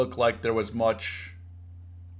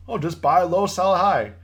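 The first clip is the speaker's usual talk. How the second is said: higher, louder mock-naive parroting; 5 semitones higher, 5 dB louder than usual. Trader scoffing at beginners' easy advice, mocking. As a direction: toss the glib advice back mockingly.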